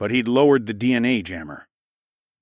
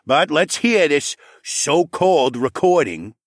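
gruff Saul voice; 7 semitones higher, 6 dB louder, slower than usual. A narrator's reading.

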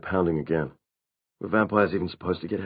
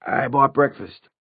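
slow, high announcement losing confidence; tentative, stretched-out offering that peters out; trailing off; 8 semitones higher, 5 dB louder, slower than usual. A narrator's reading. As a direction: start up high, drawn out, then falter. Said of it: "His voice trailed off".

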